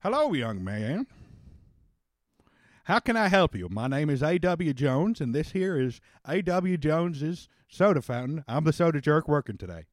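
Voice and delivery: a hint of a timid shop clerk greeting a customer; prim soda jerk.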